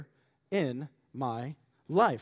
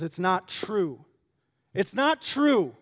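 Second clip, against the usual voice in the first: retold crying girl; 5 semitones higher, 8 dB louder, slower than usual. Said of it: "and she's crying".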